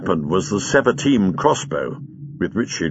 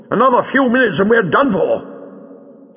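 high-pitched urgent yell; yelled warning; 12 semitones higher than usual. A narrator's reading. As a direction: yell it out under pressure. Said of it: "he yelled".

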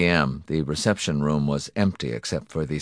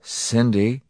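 gentle, slightly raised, questioning name; 5 semitones higher than usual. A narrator's reading. Husband coming to his sobbing wife, gently. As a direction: approach her tenderly. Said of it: "he said gently".

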